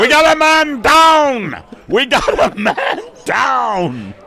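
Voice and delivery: high, loud panicked yell; man down shout. Acted. Cook yells emergency.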